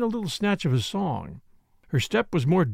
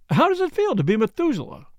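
higher, teasing with hinted laughter; amused teasing; 6 semitones higher than usual. A narrator's reading. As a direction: tease him, laughter just under the words. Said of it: "the laughter was more apparent".

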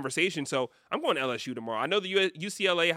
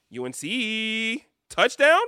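excited call; 7 semitones higher, 6 dB louder, much slower than usual. Real, not acted. Calling a score during a game.

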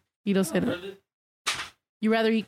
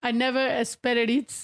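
airy voice. Shown as a demonstration. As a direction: breathe it out airy and slow. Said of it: "the airy voice".

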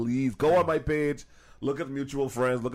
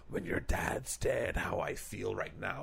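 mock meme caption; 6 semitones lower, 8 dB quieter, slower than usual. Reading an imagined meme caption.

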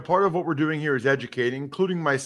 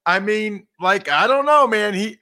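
usual speaking voice

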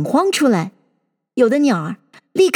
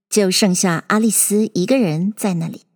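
plain reading voice

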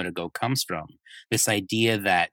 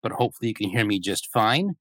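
muffled closet recording; boxy, muffled sound, like from a closet. Real, not acted. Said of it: "you do sound a little bit odd".

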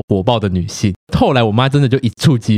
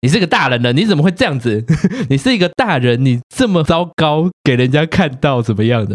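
scolding sister; 4 semitones higher than usual. Retold or imitated. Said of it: "然后我姐就说".

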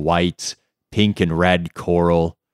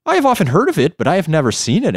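monkey voice; 10 semitones higher, 4 dB louder, much faster than usual. Acted. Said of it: "answered the monkey".

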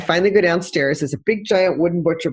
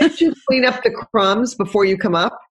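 nagging complaint; 4 semitones higher than usual. Retold or imitated. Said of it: "guess what comes out of my mouth".

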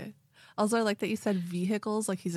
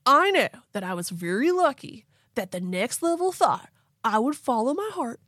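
southern-tinged surfer voice; 3 semitones higher than usual. Acted. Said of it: "I'm getting a little southerny".

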